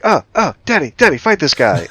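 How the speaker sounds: high, urgent imitation of kids calling Dad; mock-panicked kids. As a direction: call for help like flustered little kids.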